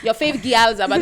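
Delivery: put-on amateur Jamaican Patois accent; half-successful Patois intro; attempted patois. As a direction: try out a Patois lilt, not quite landing it. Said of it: "This is me trying to do, like, my patois".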